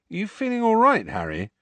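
alarmed. Acted. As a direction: ask with real concern. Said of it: "Ron looked seriously alarmed".

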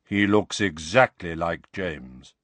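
measured and unhurried; deep slow voice. Acted. Bald wizard comparing Harry to his father, deep and slow. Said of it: "deep, slow voice".

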